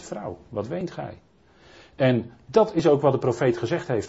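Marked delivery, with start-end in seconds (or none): 0.0-1.2 slow and much softer, gently asking; tender, hushed. Acted. Jesus gently asks weeping Maria why she cries, hushed and slow. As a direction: ask her softly, like comforting someone weeping.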